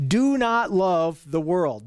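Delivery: "do not love the world" said slowly and deliberately; emphatic command. Retold or imitated. Preacher relaying John's command to the children, emphatic. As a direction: stretch out "do not love the world", weighting each word. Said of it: "he is being very emphatic".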